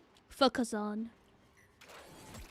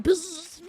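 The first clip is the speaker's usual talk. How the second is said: imitated zap; 3 semitones higher, 3 dB louder than usual. Imitating a dog shock collar zap.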